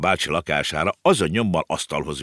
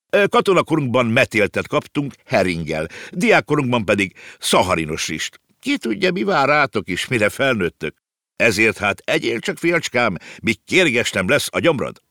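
raised-pitch uncle lecturing his nephew; lightly voiced uncle, spirited and hearty; lively uncle figure; 5 semitones higher than usual. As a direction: voice an uncle recalling hard times, pitched up.

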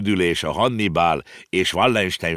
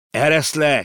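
put-on higher, louder childish cry; shouting boy; 9 semitones higher, 5 dB louder than usual. A narrator's reading. Konrád shouts to be let down: loud child's cry. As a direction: yell to be let down. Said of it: "kiabált Konrád".

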